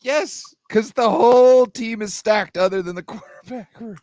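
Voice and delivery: high, loud, emphatic comeback; heated rebuttal. Real, not acted. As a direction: argue back loudly, pitch up. Heated rebuttal about Browns.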